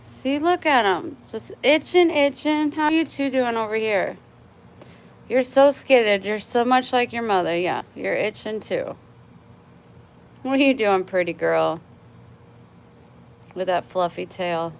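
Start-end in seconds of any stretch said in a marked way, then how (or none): 1.3-11.8 lightly raised pet voice, a touch pitying. Real, not acted. Pitying the flea-bitten cats by the cat tower, mild baby talk. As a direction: coo sympathetically at the scratching cats.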